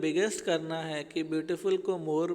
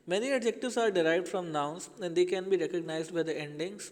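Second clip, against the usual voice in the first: slow rule reading; much slower than usual. Shown as a demonstration. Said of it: "reading a rule slowly".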